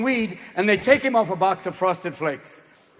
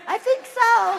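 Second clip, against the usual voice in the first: squeaky Ken doll; much slower than usual. Acted. Ken doll swimmers talking.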